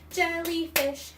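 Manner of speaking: "Jellyfish" clapped out slowly in three beats; syllable by syllable. Shown as a demonstration. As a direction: tap each beat of "Jellyfish".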